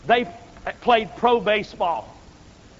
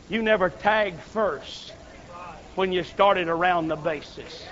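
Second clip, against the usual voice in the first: quiet verdict; 4 semitones lower, 5 dB quieter than usual. Acted. God answering the churchgoer quietly and firmly. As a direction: deliver it softly and finally.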